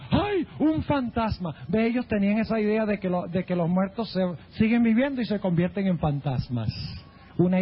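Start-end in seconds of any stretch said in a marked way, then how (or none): 0.1-1.5 frightened cry. Retold or imitated. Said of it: "Inclusive dijeron".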